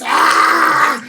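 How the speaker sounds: high, loud squealing cheer; rat cheer. Acted. Game master voicing the cheering rats, high squeal.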